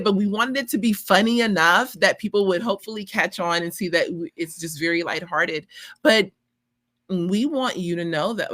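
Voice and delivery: talking while chewing gum. Real, not acted. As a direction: chew gum as you speak. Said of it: "I have gum in my mouth".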